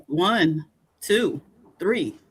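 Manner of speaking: calling out each rep; counting workout reps. Real, not acted. Counting push-ups for him.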